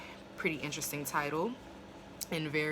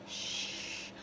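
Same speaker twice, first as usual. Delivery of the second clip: a sharp unvoiced shush; hushing shh; 9 dB quieter than usual. Faye hushing Fez, whispered shush. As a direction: hush him without voice. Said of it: "she looks at Fez and she goes".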